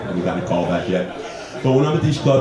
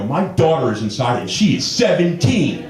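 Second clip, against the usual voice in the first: concerned father; 6 semitones higher than usual. Pretend. Feigns worried father at club window.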